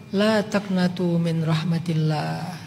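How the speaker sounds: hushed reassuring Arabic verse; slow tender recitation. Retold or imitated. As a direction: recite it gently and slowly to the sinner. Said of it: "Kata Allah".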